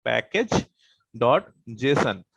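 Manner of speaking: "पैकेज ... डॉट जेसन" slowly, with a pause after "पैकेज"; slow dictation. Shown as a demonstration. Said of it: "जिसका नाम होता है". ("पैकेज", रुककर "डॉट जेसन", धीरे-धीरे लिखवाते हुए)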